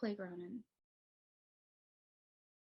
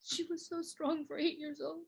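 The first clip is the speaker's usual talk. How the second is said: strained, higher pitch, rising toward an outburst; grieving; 7 semitones higher, 4 dB louder than usual. Acted. Speaker remembering how strong the lost girl was, grieving. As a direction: voice climbing high in mounting grief.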